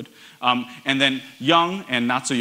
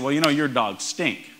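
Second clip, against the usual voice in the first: lazy Southern US drawl, words stretched out. Retold or imitated. Inventor to judges, Southern accent mocking the pitch. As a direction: drawl it like a Southern good old boy. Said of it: "the rather southern drawl I just affected".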